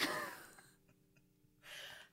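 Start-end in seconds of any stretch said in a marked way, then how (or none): 0.0-0.1 words squeezed out through giggles; real laughing. Real, not acted. Comic cracks up reading the agency's message, laughing. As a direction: break up while trying to talk. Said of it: "can't even say this without laughing".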